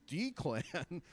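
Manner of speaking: Declan drawn out as DEE-klan; misread name. Acted. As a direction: misread Declan with a long first "ee". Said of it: "That says Declan, you moron".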